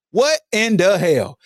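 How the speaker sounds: What in the hell back at normal pitch, slow and falling; slow incredulous repeat. Shown as a demonstration. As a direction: ask it again, still stunned.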